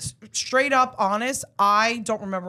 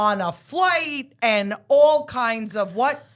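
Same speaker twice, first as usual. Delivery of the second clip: trailer voice; slower than usual. Acted. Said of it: "host movie-trailer intro".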